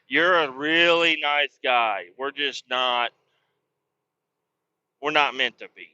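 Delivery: slow, drawn-out gentle brush-off; lightly voiced hot girl turning down a nerd; mock hot girl letdown. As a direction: let him down like the popular girl does the chess nerd. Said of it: "like the hot girl talking to the fucking chess nerd".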